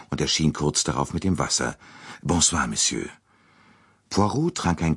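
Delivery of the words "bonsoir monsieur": usual speaking voice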